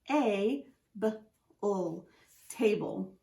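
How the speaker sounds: "t-a-b-l" in parts then "table"; sounding out table. Shown as a demonstration. Teacher sounding out table. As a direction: break it apart, then blend. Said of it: "So we have".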